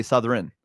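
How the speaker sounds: "Southern" with R before the E; R and E switched. Shown as a demonstration. Teaching the friend, "Southern" with R and E switched. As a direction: say "Southern" as suth-ren. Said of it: "switch the, uh, the R and the E".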